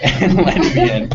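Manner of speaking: a laugh breaks in on letting me in; amused translation; laughing through it. Retold or imitated. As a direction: translate it and crack up at the end. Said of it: "which is".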